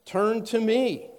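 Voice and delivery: high, drawn-out pleading call; God pleading with his people to turn back; urgent plea. Acted. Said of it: "he comes in and says".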